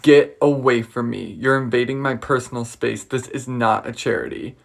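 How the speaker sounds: snapping. Retold or imitated. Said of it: "this is what she said".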